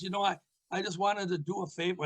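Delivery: quick, lightly imitated old wrestler; a hint of a rough wrestler's voice; Mad Dog voice. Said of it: "in his Mad Dog voice".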